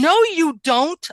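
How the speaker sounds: high, loud, slow "No, you don't"; retold fierce shout. A small girl shouts at the boy who kicked her brother. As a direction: bark it out to stop him cold.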